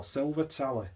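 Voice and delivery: Silver Tally with a Wigan-style ending on Tally; Wigan accent. Acted. Beer reviewer repeats the name in mock Wigan accent. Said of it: "that's terrible Wigan accent".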